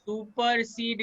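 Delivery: सुपरसीड dragged out slowly; too slow. Shown as a demonstration. Teacher showing a student how not to say it, too slowly. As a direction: stretch each syllable of सुपरसीड too long. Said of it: "इतना आस्ते नहीं बोलना है".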